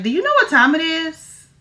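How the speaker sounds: high, indignant scolding; scolding sister. Pretend. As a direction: demand an answer, outraged. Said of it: "And I'm like".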